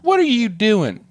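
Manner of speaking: high, slow comic quote; put-on character voice. Character mocking bad movie dialogue, put-on voice. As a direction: stretch out the question in a high voice. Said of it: "you can't do this voice".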